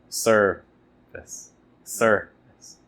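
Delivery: "Service" with SER leaned on; stress on SER. Shown as a demonstration. Teacher asking where the stress falls in service. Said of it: "it's on the first syllable".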